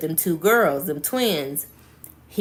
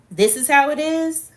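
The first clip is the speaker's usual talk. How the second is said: higher-pitched question, a touch of anger; creeping anger; 8 semitones higher, 3 dB louder than usual. A narrator's reading. Sean replying to the breakup, anger creeping in. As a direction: let mild anger push the question upward. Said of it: "Sean's anger was creeping in as he replied".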